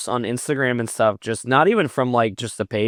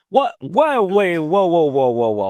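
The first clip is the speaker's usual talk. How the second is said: high stammered disbelief, dropping at the end; retold shock; 7 semitones higher, 4 dB louder than usual. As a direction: act out being stopped in your tracks. Acts out stunned reaction to coincidence.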